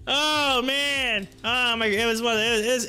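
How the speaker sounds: ordinary delivery, nothing marked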